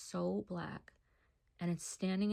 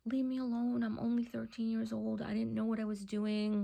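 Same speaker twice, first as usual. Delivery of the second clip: pleading protest; 3 semitones higher than usual. Retold or imitated. Retold pleading with the demon.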